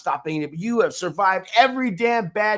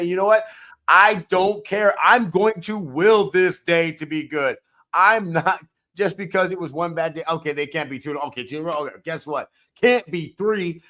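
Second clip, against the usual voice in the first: determined inner voice; 5 dB louder than usual. Retold or imitated. Voicing the optimistic mind.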